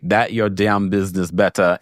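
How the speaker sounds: lightly voiced Jamaican accent; a hint of Jamaican in the quote. Host reading a viewer's comment, with a light Jamaican accent. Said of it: "in my Jamaican".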